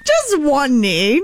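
JUST drawn out and stressed, slow. Shown as a demonstration. Correcting the proposal wording, stress on JUST. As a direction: lean hard on JUST, slow. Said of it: "You're not telling her to get on her knees".

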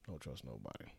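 low and quiet. Real, not acted. Repeats lesson, much lower, softer.

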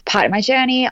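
gravelly morning voice; rough, just-woke-up voice. Real, not acted. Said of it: "sorry, I just woke up, so my voice".

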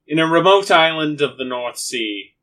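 grandly faked British tribute; put-on British accent. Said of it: "Alex, are you British too?".

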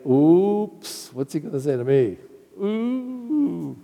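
a guilty man bracing himself; nervous Peter. Acted. Preacher imagining Peter caught out, nervous and quick. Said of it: "if I were Peter, I'd say".

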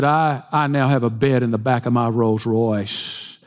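a haughty rich man gloating; arrogantly. Acted. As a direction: lord it over him. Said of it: "He said it arrogantly".

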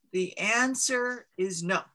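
slow, measured voice of a mountain; a giant stone mountain answering slowly; booming mountain voice. Acted. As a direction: let the mountain pronounce its verdict slowly.

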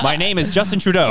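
a hint of a leader introducing himself; Justin Trudeau. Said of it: "you mean our leader?".

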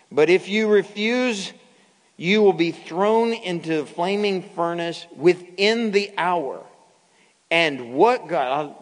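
Nebuchadnezzar. Acted. King warns the three who refused him, commanding and menacing. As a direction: lay down the royal threat forcefully. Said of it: "the king was angry".

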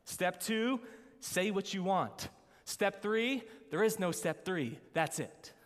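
a hint of a showman genie. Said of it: "and he says".

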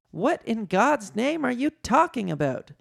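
high, exasperated mock shout; shouted demand. A narrator's reading. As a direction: demand answers, then give the order. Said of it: "shouted Leia".

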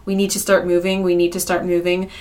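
put-on calm them like a scared child; super calm. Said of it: "I'm saying it in a super calm, like, way".

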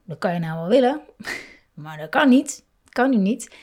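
mock strict parent saying no; stern parent tone. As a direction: lay down the law to a child. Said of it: "op zo'n toon".

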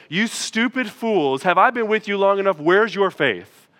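"Where's your faith?" read as a scornful rebuke; a hint of a stern scolding Jesus; mock rebuke. Shown as a demonstration. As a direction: scold them like fools. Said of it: "we read it as a rebuke".

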